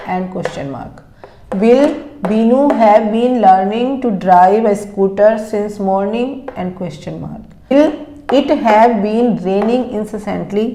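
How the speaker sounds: slow, word-by-word dictation with question rises. Shown as a demonstration. Teacher dictating questions to students, slow and careful. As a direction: dictate each question slowly, naming the question mark.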